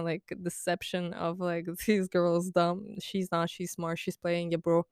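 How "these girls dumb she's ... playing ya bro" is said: slow, softer bro voice; a hint of a slow, soft-spoken bro; mock dude. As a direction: lay it on slow like a knowing bro. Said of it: "the dudes go with this".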